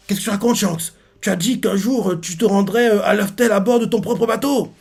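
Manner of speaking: acted-out outraged questioning; indignant protest. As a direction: challenge a friend, pitch held high. Acting out Baggy's indignant protest.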